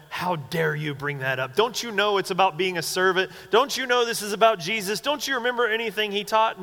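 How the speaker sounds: rising, scolding mock rebuke; mock righteous indignation. Disciples rebuking James and John over servanthood, mock-indignant. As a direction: imitate a pious telling-off, climbing in pitch. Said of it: "No, they're mad".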